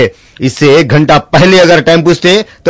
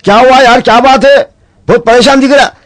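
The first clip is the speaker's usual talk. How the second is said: concerned friend; 9 semitones higher than usual. Acted. Friend asks the crying man.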